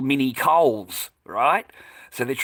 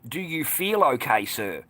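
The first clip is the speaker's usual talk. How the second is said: slow, drawn-out mock concern; over-careful "are you okay, sir"; imitated staff concern; slower than usual. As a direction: slowly mimic a prying shop worker. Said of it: "this one has piped up".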